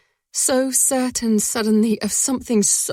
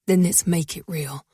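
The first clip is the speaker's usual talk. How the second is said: words forced through a set jaw; through gritted jaw; 4 semitones lower than usual. Acted. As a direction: grit your teeth and say it. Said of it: "gritting his jaw".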